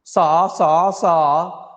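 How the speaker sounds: high, loud sing-song Indian accent syllables; mock Indian accent. Shown as a demonstration. Vlogger shows the one Indian accent bit he can do, high Indian accent. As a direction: bounce out sa sa sa in a put-on Indian accent. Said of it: "I can do the".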